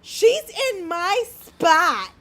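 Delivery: slow, whiny imitating voice; whiny mock complaint. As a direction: whine it out slowly, mocking. Mimicking angry woman.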